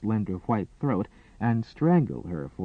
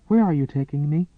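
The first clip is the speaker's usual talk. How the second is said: unsteady; 5 semitones higher, 5 dB louder, faster than usual. Acted. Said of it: "she asked unsteadily".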